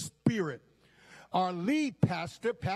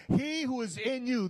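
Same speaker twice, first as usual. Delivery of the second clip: excited repeat; 6 semitones higher, faster than usual. Real, not acted. Laughing, repeating higher.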